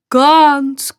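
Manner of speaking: a gnome bubbling over; delighted gnome burst. A narrator's reading. The gnome digs happily, sudden excited gnome.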